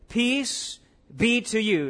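slow, solemn blessing in a light Jesus voice; lightly voiced Jesus. Pastor giving Jesus's blessing to the frightened disciples, slow and solemn. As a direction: draw out each word like a gentle benediction. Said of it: "He himself stood in their midst and said".

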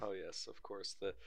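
mock upper-class English agreement; posh British accent. Joining in about the servants, posh British accent. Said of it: "get it too far off with our impressions".

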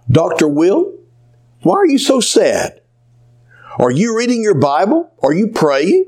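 a hint of a kindly elderly lady asking gently; Edith's voice. A narrator's reading. Old patient Edith to her sad doctor, lightly voiced and concerned.

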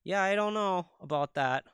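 lightly put-on Minnesotan Fargo accent. Talking like that after watching Fargo, light accent. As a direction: slip into a mild Fargo accent. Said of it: "I start to talk like that".

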